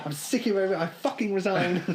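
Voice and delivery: quoting the meme as a half-hearted outburst; meme quote. Retold or imitated. Quoting a meme to a friend, mock exasperated. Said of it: "I keep seeing that meme".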